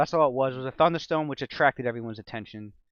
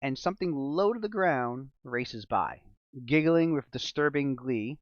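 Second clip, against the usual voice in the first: slow, ominous storytelling voice; dramatic narration; 3 dB louder, slower than usual. Acted. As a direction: paint the scene with suspense.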